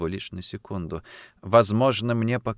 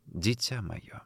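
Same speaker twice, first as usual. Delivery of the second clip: much softer, faint sick mother's answer; weak mother's reply; 4 semitones lower, 11 dB quieter, slower than usual. Acted. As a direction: barely voice it from the bed. (слабо и тихо)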